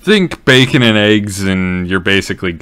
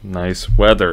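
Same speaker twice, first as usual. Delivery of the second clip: coaxing small talk. Acted. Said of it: "lifting up slightly".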